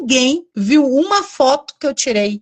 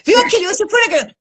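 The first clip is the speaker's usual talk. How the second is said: mock nosy friend; 9 semitones higher, faster than usual. Friends quizzing her about trip.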